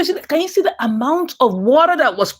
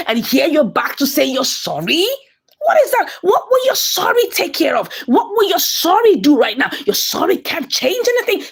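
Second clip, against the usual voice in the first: indignant rant. Real, not acted. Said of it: "I'm like".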